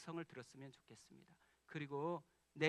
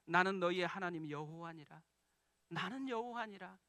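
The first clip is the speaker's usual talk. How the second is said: voice of God; 4 dB louder than usual. Pretend. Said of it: "저의 심령에 들리는 거예요".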